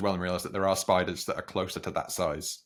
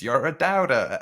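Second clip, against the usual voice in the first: mock scream, higher and louder; retold scream, raised but not full force; Luke Skywalker; 6 semitones higher, 6 dB louder, slower than usual. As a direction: imitate a puppet's scream, pitched up. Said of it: "comes alive and screams".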